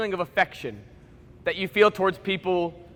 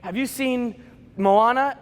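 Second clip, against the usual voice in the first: eager stranger; much slower than usual. Retold or imitated. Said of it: "be like".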